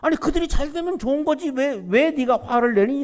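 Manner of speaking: reasoning rebuke, pitch lifting on the questions; gentle rebuke. Acted. God rebuking Jonah for his anger, mild reproach. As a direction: chide him like a patient father. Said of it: "책망하시는 거죠".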